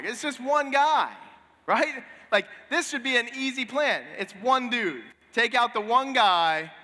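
it's only one man, how hard can it be; a boastful king scoffs at his enemy; scoffing king. Retold or imitated.

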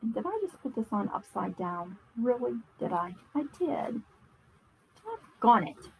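talking while chewing gum. Real, not acted. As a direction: chew gum as you talk. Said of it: "trying to talk and chew gum at the same time".

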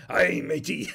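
pirate line through laughter; laughing pirate line. Retold or imitated. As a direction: crack up mid pirate voice. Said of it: "That's what the pirate said".

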